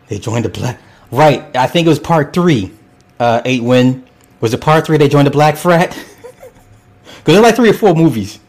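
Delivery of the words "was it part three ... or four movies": laughing. Real, not acted. Laughs while asking about movie.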